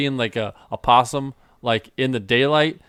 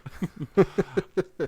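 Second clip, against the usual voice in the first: villain laugh; 7 semitones higher, 4 dB quieter than usual. Pretend. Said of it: "that's my villain voice".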